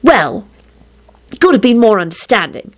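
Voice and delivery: high, climbing self-pitying wail. A narrator's reading. Rosie lamenting to her dog, wailing. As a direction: let the complaint rise into a wail. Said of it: "she finally wailed".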